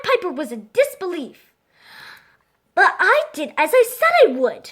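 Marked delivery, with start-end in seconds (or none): 2.7-4.7 raised, louder protest. Acted. Piper to the mayor, a raised protest. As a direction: insist you kept your word, pitched up and louder. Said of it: "he protested".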